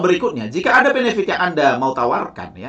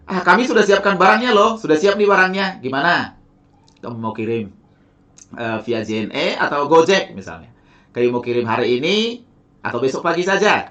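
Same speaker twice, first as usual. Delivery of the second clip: confident assumption. Shown as a demonstration. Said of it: "menunjukkan bahwa Anda sangat yakin dia bergabung".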